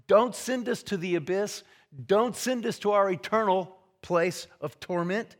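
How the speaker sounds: acted begging. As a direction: plead as the demons, punching each request. Voices the demons begging Jesus.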